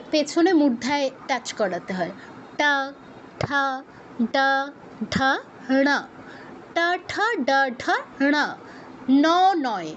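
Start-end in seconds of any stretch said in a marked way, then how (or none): 2.6-8.3 টা, ঠা, ডা, ঢা, ণ with tongue curled back; isolated syllables টা to ণ, curled tongue; retroflex demonstration. Shown as a demonstration. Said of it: "জিহ্বাটা একটু ফোল্ড করে". 9.2-9.3 ন with the tongue at the teeth; plain dental ন, not curled-back ণ; dental na counterexample. Shown as a demonstration. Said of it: "দন্তন্য যেভাবে উচ্চারণ করি".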